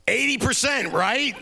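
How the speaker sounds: put-on high, loud laughing shout of an old comic; Mel Brooks. Comedian shouting a guess down the phone, high and laughing. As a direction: bellow it through a laugh down the phone. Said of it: "all I hear is Mel Brooks say".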